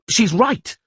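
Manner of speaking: high, loud shout; shouted agreement. Acted. Dandelion shouts to the wounded Geralt, high and loud. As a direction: call it out urgently. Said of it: "shouted Dandelion".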